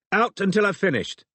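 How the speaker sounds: high, sharp doctor's command; barked order. A narrator's reading. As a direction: bark an order to leave.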